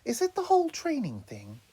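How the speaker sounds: caring. Acted. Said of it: "in a genuinely caring tone".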